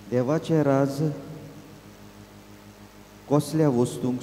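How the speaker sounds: measured Gospel reading, slightly lifted voice; scripture reading. Acted. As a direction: read the parable out clearly, phrase by phrase.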